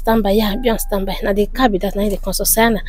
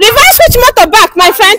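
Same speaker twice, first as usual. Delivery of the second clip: higher, indignant retort; confrontational challenge; 4 semitones higher than usual. Acted. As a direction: throw it back at the driver, pitched up. Confronting another driver.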